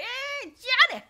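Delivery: high, loud mock English accent; put-on English accent. Manager greeting her at the swap meet, put-on English accent. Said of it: "trying to put on this English accent".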